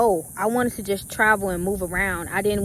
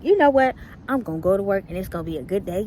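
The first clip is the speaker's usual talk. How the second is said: mock pep talk; faster than usual. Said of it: "whole little pep talk".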